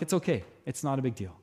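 soft, low-key reassurance; calm, unbothered. Retold or imitated. Pastor to the freaked-out youth, calmly reassuring. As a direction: play it down gently, voice dropping off. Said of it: "I didn't get angry".

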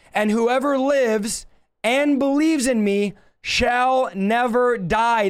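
slow, emphatic scripture quote; emphatic repeat. Shown as a demonstration. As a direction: draw it out word by word for emphasis. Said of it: "Let me say that again".

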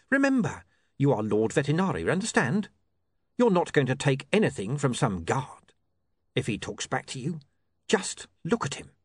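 lightly voiced coaxing crook; patient criminal boss. Mister Pin coaching Charlie as Vetinari, mildly firm. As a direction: coach him with mild firmness.

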